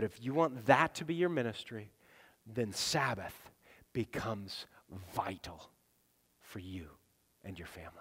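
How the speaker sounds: fading to a whisper; hushed emphasis. Real, not acted. Preacher pressing Sabbath on the congregation, sinking to a whisper. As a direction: drop it low and let it land.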